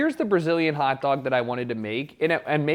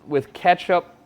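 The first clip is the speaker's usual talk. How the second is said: suppressing hiccups; 2 semitones higher, 5 dB louder than usual. Real, not acted. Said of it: "Sorry, I'm trying not to hiccup".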